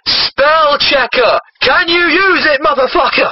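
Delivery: mock outrage. Reader berates the writer over a typo, mock outrage. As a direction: demand it with hammy exasperation.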